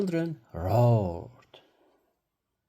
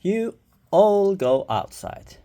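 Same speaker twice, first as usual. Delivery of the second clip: firm instruction; 7 semitones higher, 7 dB louder, slower than usual. A narrator's reading. Teacher sending children out.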